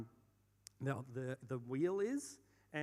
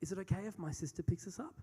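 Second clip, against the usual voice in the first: date's hesitant ask; 4 semitones higher, faster than usual. Retold or imitated. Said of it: "she leans over to me, and she says".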